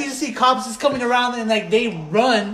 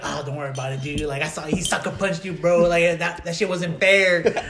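lightly voiced bouncer, lower and quieter; reassuring bouncer; 4 semitones lower, 4 dB quieter than usual. Bouncer reassuring the mad customer, low retold sympathy. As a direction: console him in a low, soft voice. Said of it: "He's like".

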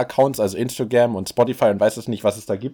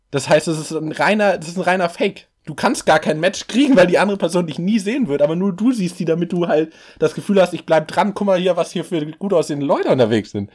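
real, mildly heated rant, pitched up; worked-up rant; 3 semitones higher than usual. Real, not acted. Ranting to co-host about fake Tinder matches, worked up. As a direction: get a little carried away, indignant. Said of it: "du redest dich ein bisschen in Rage".

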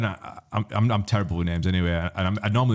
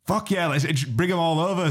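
eager yes; 8 semitones higher than usual. Retold or imitated. Retold eager reply.

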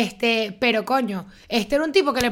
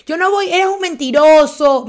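raised, slowed angry jab; mock angry retort; 5 semitones higher, 9 dB louder, slower than usual. Friend retelling fake TikTok couple, in a raised mock-angry voice. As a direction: snap at the liar with mock outrage.

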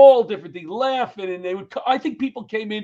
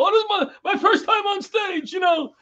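high, loud nervous blurting; nervous high excuse; 11 semitones higher, 4 dB louder than usual. Retold or imitated. Comic telling the crowd it's his first time, high and nervous. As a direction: blurt it out like a rattled newbie.

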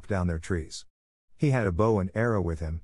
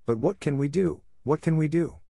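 put-on higher, anxious cry of the lost boys; panicked boys; 7 semitones higher than usual. A narrator's reading. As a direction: ask it in rising panic.

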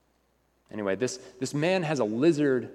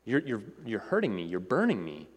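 alarmed ghostly man; 2 semitones higher than usual. Acted. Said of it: "And the ghostly man says".

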